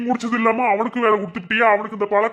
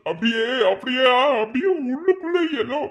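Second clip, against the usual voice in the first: pained pleading; 5 semitones higher than usual. Acted. Drunk man describes heartache, pained.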